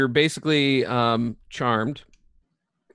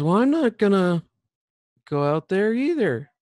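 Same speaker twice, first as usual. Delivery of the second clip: high-pitched little character voice; Lulu; 9 semitones higher than usual. Acted. Lulu refuses to leave the dome, high character voice. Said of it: "She goes".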